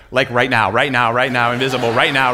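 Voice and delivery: loud, insistent rapid-fire repetition; comic desperate prayer; mock urgent plea. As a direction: plead urgently, hammering each repeat. Urgent prayer as mob closes in.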